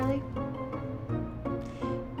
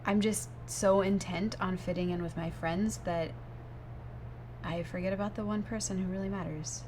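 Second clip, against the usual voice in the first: contrite apology; 3 semitones lower, 6 dB quieter than usual. Acted. Girlfriend gives in and apologizes.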